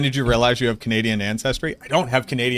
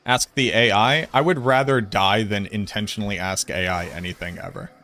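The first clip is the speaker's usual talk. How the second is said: Boston accent; 2 semitones lower than usual. Shown as a demonstration. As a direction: grumble in a broad Boston accent. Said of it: "this is my, like, true accent".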